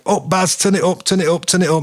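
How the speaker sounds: calling out high to a mate across the room; urgent call to turn the power up; shouting up the workshop. Retold or imitated. Mick calling to the lad on the variac to turn it up. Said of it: "Mick shouting to bloke in middle".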